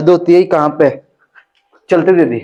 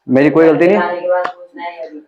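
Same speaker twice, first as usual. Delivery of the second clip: slow, drawn-out mimic of a student; mock whiny denial; much slower than usual. Teacher imitating a student's excuse, slow and whiny. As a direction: stretch it out like a sulky kid.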